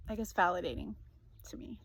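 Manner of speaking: whispered through tears; barely able to say it, welling up; choked up. Real, not acted. Reading her own story to viewers, voice catching with emotion. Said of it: "I feel emotional".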